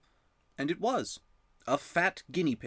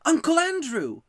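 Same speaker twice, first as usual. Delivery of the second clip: put-on much louder, much higher boy's shout; 9 dB louder than usual. A narrator's reading. Diggory remembers at the same moment and shouts, loud. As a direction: call the name out as it comes back. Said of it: "he shouted out".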